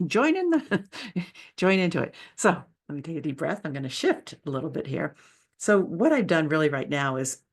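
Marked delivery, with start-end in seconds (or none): 0.1-2.1 laughing through the words, pitch jumping up; amused self-correction, laughing. Real, not acted. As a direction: giggle out the phrase as you correct yourself. Laughing at own phrase.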